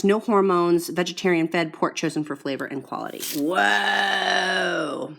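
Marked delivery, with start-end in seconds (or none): 3.4-5.1 surprised whoa. Real, not acted. Vlogger opens the next pack, with a loud whoa. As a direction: let out a loud, stunned whoa. Reacting to the meat.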